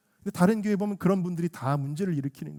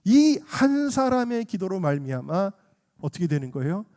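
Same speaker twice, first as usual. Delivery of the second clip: ordinary delivery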